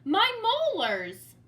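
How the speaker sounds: slow, high, loud shout of joy; joyful yell. Acted. George yelling with joy, finding his old molars. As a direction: yell it out in triumph. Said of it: "leaped up and yelled".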